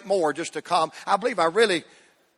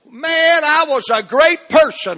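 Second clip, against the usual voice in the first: higher, louder mock brag; mock bragging; 9 semitones higher, 7 dB louder, slower than usual. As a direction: show off like a smug saint. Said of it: "parade around heaven going".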